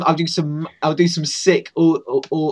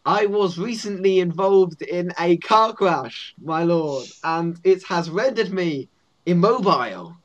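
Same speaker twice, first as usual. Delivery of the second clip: slightly raised, mock-formal guard voice; lightly voiced guard making a solemn excuse; goblin guard; 5 semitones higher, slower than usual. Goblin guard explains voice problems, haltingly formal. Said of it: "as a guard".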